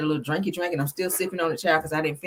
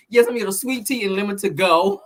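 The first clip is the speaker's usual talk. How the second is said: laughing imitation of husband; 4 dB louder than usual. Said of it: "My husband like".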